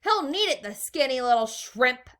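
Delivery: high, loud mocking girl; girl in the crowd. A narrator's reading. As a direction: sneer at him loudly. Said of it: "a girl said".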